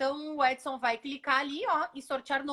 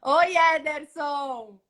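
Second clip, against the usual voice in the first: slow, loud greeting; 2 semitones higher, 6 dB louder, much slower than usual. Real, not acted. Greeting the winner live.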